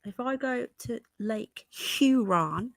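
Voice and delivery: put-on slow, playful American accent on place names; put-on American, drawing out the key words; attempted American accent. Penny showing off her new pronunciation, attempted American accent. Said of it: "gotta say it that way from now on".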